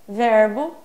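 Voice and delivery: usual speaking voice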